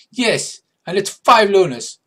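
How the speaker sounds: high, loud, insistent creature; Morricanth voice. Acted. Morricanth demands the toll from travellers, high and insistent. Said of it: "what accent I'm using for the, uh, Morricanth".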